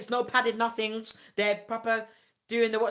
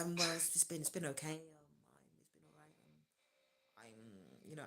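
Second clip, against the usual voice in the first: posh man; 4 semitones lower, 14 dB quieter than usual. Retold or imitated. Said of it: "why are you talking like that".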